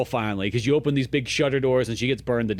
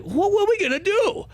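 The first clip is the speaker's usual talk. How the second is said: mock exasperation. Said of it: "it's like".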